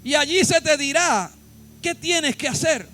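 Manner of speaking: loud, forceful proclamation with weighty pauses; Jesús. Acted. Preacher voicing the answer to Saulo, loud and commanding. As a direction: thunder out each phrase as a divine command. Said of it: "y la voz le contestó".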